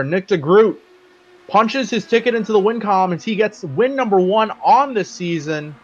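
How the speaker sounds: excited finish call. Real, not acted. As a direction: call the checkered flag win. Calling the race win.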